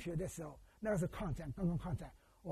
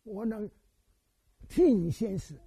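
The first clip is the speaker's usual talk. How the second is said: mother's wailing lament; 3 semitones higher than usual. Retold or imitated. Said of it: "他从半夜哭". (慢慢模仿母亲的哀哭)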